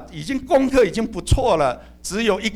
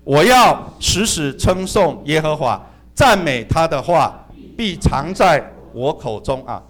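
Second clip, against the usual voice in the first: slow scripture reading; 3 semitones lower, 4 dB louder, slower than usual. Shown as a demonstration. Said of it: "我们一起来读啊".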